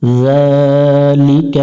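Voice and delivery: slow melodic chanted recitation; Quran recitation. Shown as a demonstration. Teacher chants the verse for students, slow and melodic.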